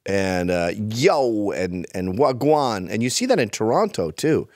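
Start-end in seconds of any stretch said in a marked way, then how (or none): 0.8-1.5 put-on Jamaican slang accent. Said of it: "it's a Jamaican thing now". 2.2-2.9 slow Jamaican-style "wagwan"; imitated Jamaican accent. Guest lists London youth slang, imitated Jamaican accent. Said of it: "it's a Jamaican thing now".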